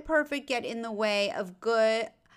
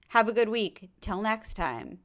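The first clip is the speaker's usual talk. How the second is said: put-on old newscaster sign-off. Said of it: "Sounds like an old newscaster".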